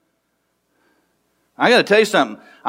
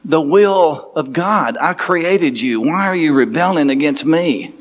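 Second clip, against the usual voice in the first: voice of God; 3 semitones lower than usual. Retold or imitated. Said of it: "God is standing there saying".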